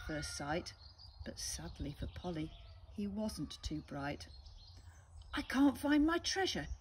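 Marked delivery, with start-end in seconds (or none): 5.3-6.7 high, louder puzzled pirate; a dim pirate grumbling; lightly voiced frowning pirate. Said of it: "he said with a frown".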